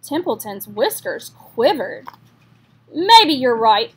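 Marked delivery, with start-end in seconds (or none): 2.9-3.9 gruff. Acted. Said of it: "he said gruffly".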